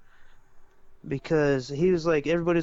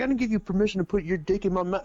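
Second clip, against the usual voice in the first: imitating his delivery; 3 semitones higher, faster than usual. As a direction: rattle it off the way he said it. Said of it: "hey, bro, he says it like this".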